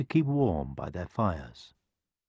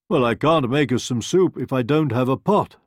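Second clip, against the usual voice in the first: wolf voice; 5 semitones higher, 6 dB louder than usual. A narrator's reading. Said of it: "said the wolf".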